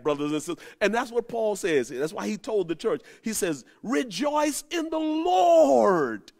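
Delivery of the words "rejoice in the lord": preaching cry. Real, not acted. Preacher cries out Paul's words.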